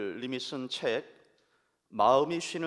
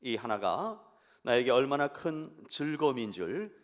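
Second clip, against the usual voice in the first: poem reading. Acted. Pastor reads a poem to the congregation, tender recitation. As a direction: read the poem gently, letting lines fall. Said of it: "여러분께 읽어드리겠습니다".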